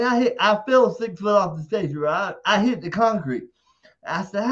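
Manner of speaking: ordinary talk, nothing marked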